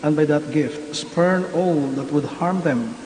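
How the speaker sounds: solemn, measured prayer voice; liturgical prayer. Acted. Priest prays the blessing.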